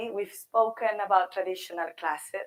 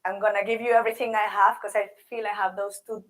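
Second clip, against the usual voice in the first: hoarse from a sore throat; talking through a sore throat. Real, not acted. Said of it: "I have the worst sore throat ever".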